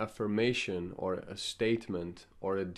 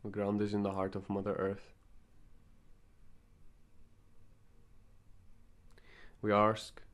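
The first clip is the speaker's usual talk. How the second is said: calm invocation with long pauses between phrases; guided meditation. Acted. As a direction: lead them gently into the meditation, phrase by phrase.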